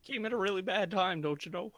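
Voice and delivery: high, chirpy gee-whiz voice; wholesome 1950s kid. Acted. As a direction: sound like an eager old-timey kid. Player voices nerd character.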